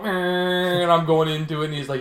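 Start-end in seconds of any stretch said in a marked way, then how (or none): 0.0-0.8 drawn-out machine whine; imitated machine noise. Describing the CT scanner going round, imitated machine whine. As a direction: mimic the scanner's whirring whine. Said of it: "The thing's going".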